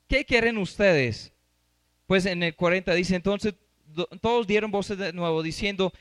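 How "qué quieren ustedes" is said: the question again with a laugh, slow; amused Pilate asking the crowd; laughing through it. Shown as a demonstration. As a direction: chuckle as you repeat Pilate's question. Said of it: "Miren cómo preguntó Pilato".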